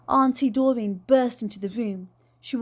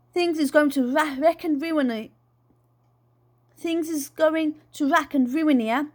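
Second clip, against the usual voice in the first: loud, no-nonsense auntie; bossy Geordie auntie; 3 semitones higher, 3 dB louder than usual. Acted. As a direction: lay down the law like a bossy aunt. Voices the bossy aunt.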